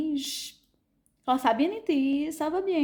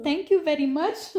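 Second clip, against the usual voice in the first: put-on French accent in English; 2 semitones higher, 3 dB louder than usual. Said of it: "c'était vraiment".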